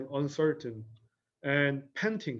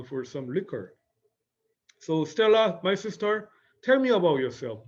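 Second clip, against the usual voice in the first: coaxing Blanche; 3 semitones higher than usual. Acted. Teacher acts Blanche urging Stella.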